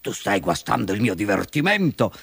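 mildly peeved fox; understated annoyance; vexed. Acted. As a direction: grumble like a thwarted villain. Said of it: "si indispettì la volpe".

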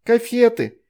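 high, loud whine; whiny child. A narrator's reading. Veronika pushing her sister aside, high and whiny. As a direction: whine like a child losing sweets.

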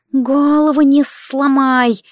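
slow, high, rustling serpent voice; rustling snake voice. Acted. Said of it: "прошелестела Альгиз".

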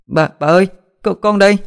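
put-on high, thin little girl calling out; small child voice. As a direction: answer like a scared child found at last. Child answers grandmother.

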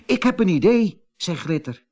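high, eager little devil voice; young devil girl. Acted. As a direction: invite the monster kindly. Glitter invites the monster.

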